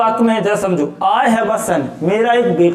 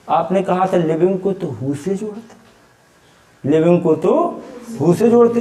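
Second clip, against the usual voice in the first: imitated student objection; 3 semitones lower than usual. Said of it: "अब आप कहोगे".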